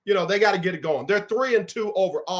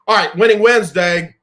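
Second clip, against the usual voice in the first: hype segment intro; 2 semitones higher, 11 dB louder than usual. Real, not acted. Kicks off the show segment.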